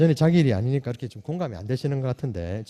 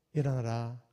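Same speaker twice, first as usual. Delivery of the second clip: soft, gentle wake-up; tender call; 5 semitones lower, 7 dB quieter than usual. Retold or imitated. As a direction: call the child softly awake. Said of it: "하신 것도 맞다라는 거예요".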